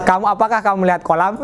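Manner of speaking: quick question, rising on "kolam"; "kolam" turned up as a question; question intonation. Shown as a demonstration. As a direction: ask "apakah kamu melihat kolam" briskly with a lift at the end. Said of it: "Ini kalau nadanya pertanyaan".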